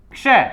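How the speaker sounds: क्षय as kshay, with a joined ksh; क्षय said kshay, k and sh run together; क्षय spoken kshay. Shown as a demonstration. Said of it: "इसलिए बोला जाता है क्षय".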